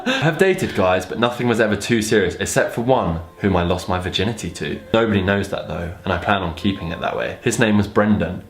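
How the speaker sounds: even, measured read-aloud; narrating a story aloud; story narration. A narrator's reading.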